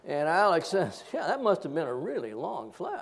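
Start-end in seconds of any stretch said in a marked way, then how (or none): 1.1-3.0 imitated dry teasing with swooping pitch; sarcastic. Maintenance intern teasing him about the near fall, sarcastic. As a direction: play along with the mockery, stretching the tease. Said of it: "the sarcasm was killing me".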